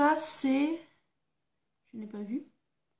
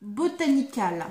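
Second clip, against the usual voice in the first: slow, careful English in a French accent; slower than usual. Real, not acted. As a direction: sound out the English name slowly, French accent intact. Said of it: "mon accent anglais". (anglais prononcé lentement à la française)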